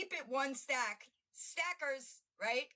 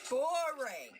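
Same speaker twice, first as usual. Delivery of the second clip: mock-bored dismissal; 3 semitones higher, 4 dB louder than usual. Real, not acted. Mocking dismissal.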